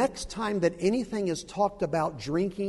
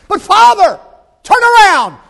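high, begging cry; pleading scream; 23 dB louder than usual. Acted. Jesus begging the Father to turn around, pleading scream.

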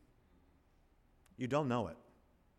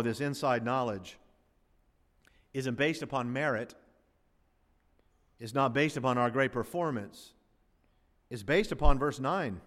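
usual speaking voice

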